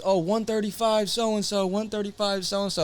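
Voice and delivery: slow, high mock ring announcer. Mocking the announcer to the hosts, slow and high. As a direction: lightly voice the ring announcer reading the weight. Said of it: "They announced that".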